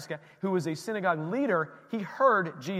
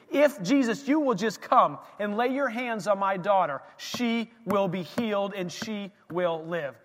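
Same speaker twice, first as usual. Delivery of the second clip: believing plea; 3 semitones higher than usual. Retold or imitated. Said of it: "He's believing".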